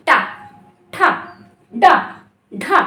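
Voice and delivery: टा, ठा, डा, ढा each said crisply with tongue curled back; teacher demonstrating retroflex consonants to students; retroflex sound demo. Shown as a demonstration. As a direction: show the retroflex stops one by one. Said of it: "अब चाहे आप बोल के देखिए टा".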